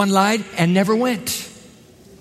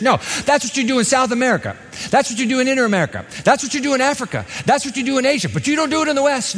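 higher, fast mocking excuse; mock dismissive; 6 semitones higher, faster than usual. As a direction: parody the lazy excuse.

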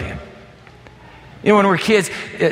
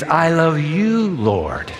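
tender declaration; much slower than usual. Acted. Preacher voicing David to God, slow and tender. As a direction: savor each word like a confession of love.

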